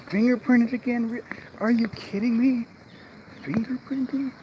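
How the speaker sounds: high, loud, indignant squawk; outraged disbelief. Retold or imitated. Realtor retells his outrage at the city clerks, high and squawking. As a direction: screech it like you can't believe it. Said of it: "I was pissed this time".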